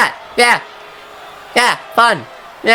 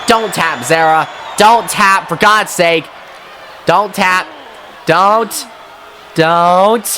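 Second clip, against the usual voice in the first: pleading cries; slower than usual. Real, not acted. Pleading with his wrestler.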